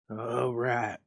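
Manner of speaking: lightly voiced frightened old man; shaking tones. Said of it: "said the old man in shaking tones".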